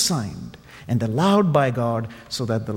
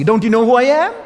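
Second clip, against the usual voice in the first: loud, higher, wounded pride; indignant; 9 semitones higher, 7 dB louder, faster than usual. Acted. Snubbed donkey scolding the people at the well, indignant and loud. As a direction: demand recognition, outraged. He said crossly.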